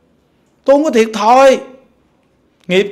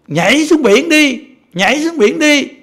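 Bodhisattva's command; 4 semitones higher than usual. Retold or imitated. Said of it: "Phật Bồ Tát chỉ cái ông kia".

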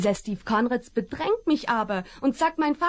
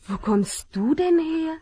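coaxing a dog; 2 semitones higher than usual. Acted. Woman coaxing a stray dog.

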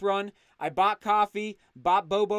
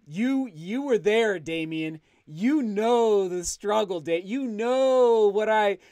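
slow, louder, choked-up thanks to a longtime viewer; getting emotional; 4 dB louder, slower than usual. Real, not acted. Thanking longtime viewer Damien, slow and emotional. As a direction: let the feeling rise as you thank him. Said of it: "now I am gonna get emotional".

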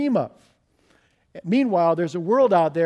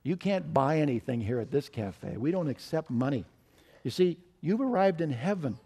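kindly. Acted. Waitress kindly explaining heaven to outraged businessman, gentle. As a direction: smile through it, patient and kind. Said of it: "smiled and said very kindly".

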